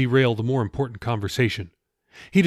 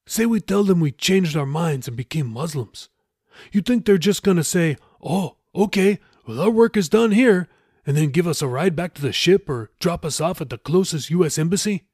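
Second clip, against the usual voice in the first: higher-pitched, incredulous arguing; Raoul, sarcastic; 6 semitones higher than usual. Acted. Raoul argues with Jeffy's plan, sarcastic and higher. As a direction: poke holes in a naive plan.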